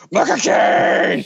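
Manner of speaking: slow, drawn-out hammed villain line; mock villain cry. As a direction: ham up the villain's catchphrase. Kane's villain catchphrase retold.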